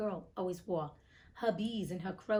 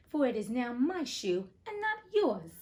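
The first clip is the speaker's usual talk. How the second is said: louder, mocking witch voice; witch's retort; 3 semitones higher, 5 dB louder than usual. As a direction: gloat over the stolen shoe. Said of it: "retorted the witch".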